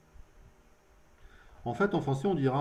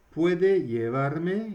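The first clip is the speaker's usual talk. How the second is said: slow teaching demo; 3 semitones higher, 4 dB louder, much slower than usual. Shown as a demonstration. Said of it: "Alors, la distinction, c'est".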